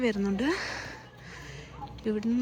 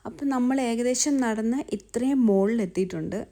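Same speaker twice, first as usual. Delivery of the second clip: panting breathy words; gasping between words on a climb; out of breath. Real, not acted. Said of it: "ഞങ്ങളുടെ heavy breathing".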